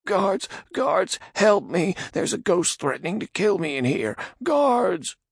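high, loud panicked cries; panicked shouting. Acted. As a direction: scream for the guards. Radagon panics calling guards.

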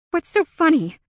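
loud, high angry demand. A narrator's reading. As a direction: demand it, furious. Asked chest heaving with rage.

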